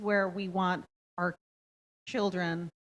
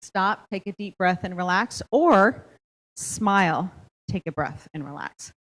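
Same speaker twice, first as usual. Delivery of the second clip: guided breathing; 6 dB louder than usual. Shown as a demonstration. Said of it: "we're gonna practice star breathing".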